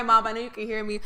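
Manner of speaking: ordinary talk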